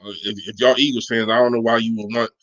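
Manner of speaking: normal talking voice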